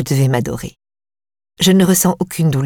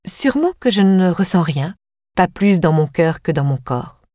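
ironic. Acted. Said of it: "ironisai-je".

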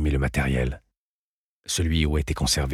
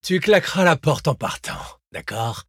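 higher, mocking call across the room; called from afar; 12 semitones higher than usual. Leaving the lecture hall, she calls back to Thomas mockingly. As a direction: toss it back over her shoulder from far off. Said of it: "Me lança-t-elle de loin".

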